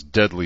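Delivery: "deadly" given mild weight; stress on DEADLY. A narrator's reading. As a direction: lean lightly on the word "deadly". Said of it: "emphasis on deadly".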